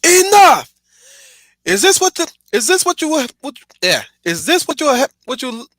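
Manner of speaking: booming high shouted movie villain; Lucian impression. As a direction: bellow it like an enraged werewolf leader. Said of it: "let me try my impression now".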